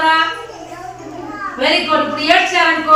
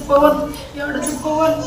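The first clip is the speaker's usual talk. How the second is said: consoling. Shown as a demonstration. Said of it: "ఇట్లా ఓదార్స్తామో ఓదార్చామో మనం కూడా బాధపడుతూ".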